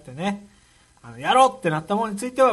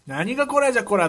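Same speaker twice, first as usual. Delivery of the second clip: 長州力のモノマネ; 4 semitones higher than usual. Retold or imitated. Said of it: "長州力。".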